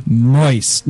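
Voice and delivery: low tinny radio announcer. Pretend. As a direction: say it like an old AM radio broadcast. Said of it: "Now you sound like you're on an A M radio station".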